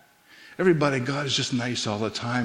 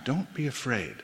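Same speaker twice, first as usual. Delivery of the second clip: Don't be afraid, said far softer the second time; hushed second Don't be afraid; softer repeat; 8 dB quieter than usual. Shown as a demonstration. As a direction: drop the voice right down for the repeat. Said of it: "For the second time".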